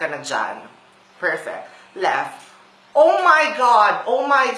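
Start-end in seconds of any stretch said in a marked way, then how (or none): 3.0-4.6 panicked. Acted. Panic at a one-way street.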